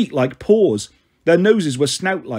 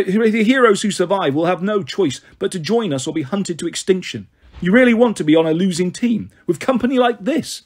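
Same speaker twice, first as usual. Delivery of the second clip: raised, insistent villain's appeal; persuasive villain; 3 semitones higher than usual. Acted. Luke warns Annabeth the camp will fall, insistent. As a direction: press her hard to switch sides.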